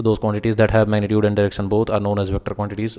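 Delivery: reading the definition out slowly for notes; unhurried note-dictation voice. Acted. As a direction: spell it out word by word for students to copy.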